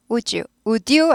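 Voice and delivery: "would you" blended as woo-joo; "would you" with d melting into j; softened would you. Shown as a demonstration. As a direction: run "would you" together with a j. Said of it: "부드럽게 발음되죠".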